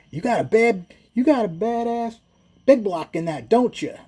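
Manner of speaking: high, put-on Black American accent as the Cadillac driver; imitating a Black American accent, amused; imitated Black accent. Cadillac driver calls out to Big Mike, in a put-on Black American accent. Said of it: "say it with a black accent".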